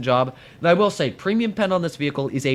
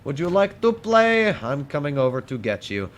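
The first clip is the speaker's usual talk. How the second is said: playful taunt. Pretend. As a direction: taunt the enemy like a creepy playmate. Taunting enemy tank playfully.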